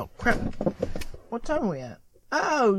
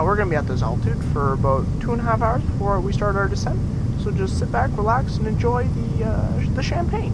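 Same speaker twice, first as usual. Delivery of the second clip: airline captain announcement; calm pilot on the intercom; pilot cockpit headset. Acted. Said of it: "here it goes".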